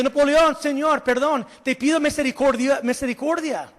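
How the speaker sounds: mother pleading. Retold or imitated. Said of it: "Y su mamá gritó".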